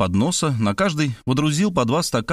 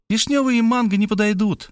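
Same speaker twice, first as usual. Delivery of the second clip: a higher female voice, brisk and final; cutting Maria off; 9 semitones higher than usual. A narrator's reading. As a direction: interrupt him, firmly. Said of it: "оборвала меня Мария".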